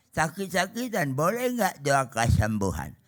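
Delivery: put-on slow, halting old man asking; bapak tua. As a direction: lightly imitate an elderly churchgoer, slowing down. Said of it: "Ada bapak-bapak udah tua". (tiruan bapak tua yang bicara pelan-pelan)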